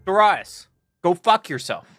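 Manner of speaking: high, slow, drawn-out yell; exasperated shout. Real, not acted. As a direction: cry out at the game in disbelief. Outburst at bad matchmaking.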